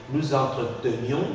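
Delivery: entretenions as "en-tre-te-nions"; mute E pronounced. Shown as a demonstration. Teacher models the imperfect for student, entretenions with E articulated. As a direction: keep the E before -nions in entretenions.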